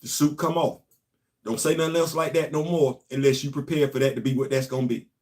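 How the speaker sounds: low, cold, stern warning; menacing warning. Retold or imitated. Ron would have warned DeSantis, low and menacing. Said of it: "looked at him like".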